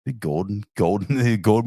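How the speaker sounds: put-on loose Australian or New Zealand accent; Gordon's Australian accent. Guest calling his imaginary friend, playful Australian accent. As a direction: call out in a mock Australian accent. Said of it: "We've been doing his accent".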